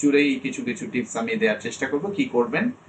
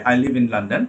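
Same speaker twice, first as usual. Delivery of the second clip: teacher's example of a falling statement on "London"; much slower than usual. Shown as a demonstration. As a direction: model statement with "London" meant to fall. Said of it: "এটা falling টোনে আসবে".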